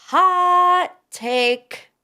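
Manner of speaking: high, punchy hot take call; mock announcer. Shown as a demonstration. Host hyping her own opinion, mock announcer call. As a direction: sing it out like a game show host.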